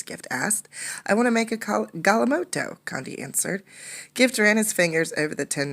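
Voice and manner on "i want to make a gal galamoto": put-on high eager boyish answer. Condi eagerly telling Gift his plan. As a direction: tell him with excitement.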